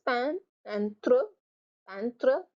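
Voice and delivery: peintre split into pain and tre; French peintre as pain-tre; two syllables. Shown as a demonstration. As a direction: sound out peintre in two beats. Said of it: "Two syllables".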